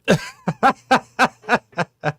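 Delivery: high, loud burst of laughter; loud belly laugh. Real, not acted. Storyteller laughing at his own mistake, uproariously. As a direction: crack up at your own punchline.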